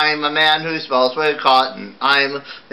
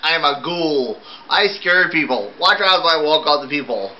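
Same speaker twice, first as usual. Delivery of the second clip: a ghoul's lament, pitched higher; a sad little ghoul, sung-spoken and higher; lightly voiced ghoul; 5 semitones higher than usual. Ghoul telling everyone he scares people, lightly voiced and higher.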